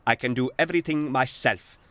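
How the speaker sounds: proud. Acted. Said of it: "said the J C B proudly".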